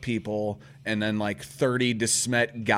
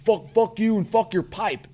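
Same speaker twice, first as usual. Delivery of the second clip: higher mock bully voice; raised, aggressive retelling of a taunt; imitated belligerence; 10 semitones higher, 4 dB louder than usual. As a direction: act out a bully refusing to back off. Acted bully in a quarrel.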